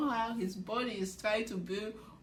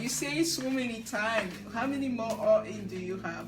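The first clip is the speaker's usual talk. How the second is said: teasing repeat, pushed a little louder; mock teasing, louder take; 4 dB louder than usual. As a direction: needle him like Dio did. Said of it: "making fun of Johan".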